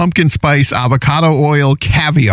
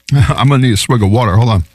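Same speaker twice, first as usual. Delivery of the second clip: talking through a mouthful of chips; words round a bite of food; mouth full; faster than usual. Real, not acted. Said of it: "don't talk with your mouth full".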